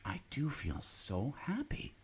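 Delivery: hushed whisper of the father; a secret happy whisper. A narrator's reading. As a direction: breathe it out, barely voiced. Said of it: "said the father".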